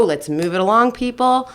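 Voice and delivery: stern drill sergeant. Retold or imitated. Mother moving her kids along at bath time, mock stern. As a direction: lightly imitate a drill sergeant herding children. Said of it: "I have to be really stern".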